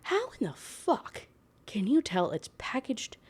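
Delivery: high, breathy disbelief, voice cracking up; incredulous. Real, not acted. Mocking the book's plot hole in high disbelief. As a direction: squeak out the outrage at the plot hole.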